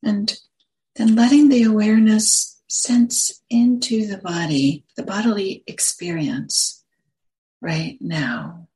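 unhurried phrases with long pauses between them; guided meditation. Acted. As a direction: guide listeners gently into the body, leaving space after each phrase.

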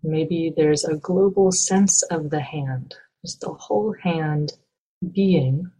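calm, measured meditation guide with long pauses; guided meditation. Acted. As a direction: guide listeners gently, leaving space between phrases.

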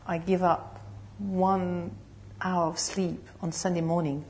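slow, soft, half-whispered grumble; mock reluctance, slow and whispered; reluctant murmur. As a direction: grudgingly mumble the sacrifice. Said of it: "we say".

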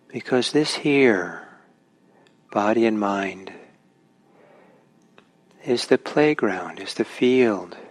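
unhurried guidance with long pauses; guided meditation. Real, not acted. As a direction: ease listeners into meditation, phrase by phrase.

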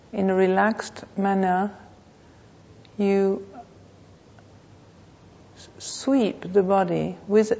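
measured meditation voice with long pauses; guided meditation. Real, not acted. Teacher leading a class to notice the body, guided meditation. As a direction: guide them unhurriedly, phrase by phrase.

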